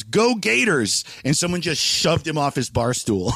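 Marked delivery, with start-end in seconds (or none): 0.0-1.0 drawn-out, higher mock cheer; stretched sports-fan call at talking volume; retold yell. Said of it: "this one guy yells".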